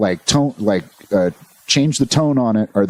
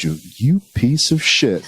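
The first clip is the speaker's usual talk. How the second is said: casual voice; 2 semitones higher, slower than usual. Pretend. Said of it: "like, a casual voice".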